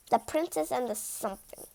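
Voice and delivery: hushed whisper; conspiratorial whisper. Acted. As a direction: whisper it like a secret. Secret whispered title.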